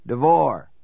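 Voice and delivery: lightly voiced elderly man, rasping; a hint of an old man's rasp; raspy old man voice. A narrator's reading. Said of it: "a man's raspy voice, an elderly voice".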